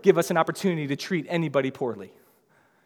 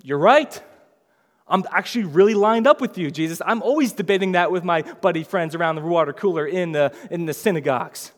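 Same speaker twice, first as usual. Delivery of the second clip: eager scribe agreeing; 6 dB louder than usual. Retold or imitated. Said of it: "surprisingly goes".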